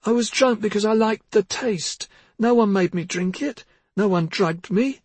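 high, rising tearful insistence. Acted. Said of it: "Missa's voice grew louder".

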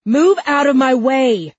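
high, loud, fearful command; frantic shout. A narrator's reading. Fearful cop to Huck, frantic shout. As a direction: shout as fear takes over.

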